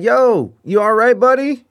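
calling out. Retold or imitated. Calling through bathroom door.

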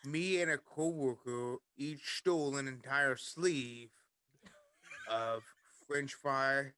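slow, put-on Liverpool storytelling; goofy Liverpool accent. Telling friends about the Monopoly scheme, slow Liverpool accent. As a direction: draw the story out in mock Liverpool. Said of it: "Liverpool accent the rest of the night".

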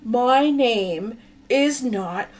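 slow, loud, high angry rant; screaming at someone. Acted. Christian Bale raging at Ron over a nickname, furious. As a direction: stretch out every furious word.

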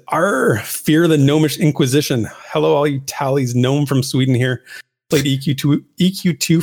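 gnome shouting voice. Acted. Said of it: "I'll try and put on my gnome shouting voice here".

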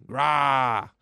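a short growled grah of rage; mock angry roar. Angry Vader smashing stuff, a roared grah. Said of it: "He's yelling".

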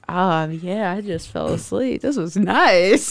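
contented. Retold or imitated. Voicing content couch napper.

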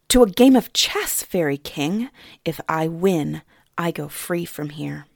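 put-on girl proposing a chess match to win freedom; bold Suni. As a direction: throw the challenge at him.

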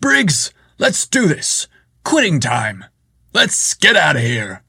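high booming call. Acted. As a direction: boom it across the office. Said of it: "in his booming voice".

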